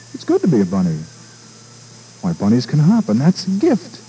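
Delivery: high, timid bunny voice; a small rabbit shyly asking to join; little bunny voice. Acted. Bunny delighted.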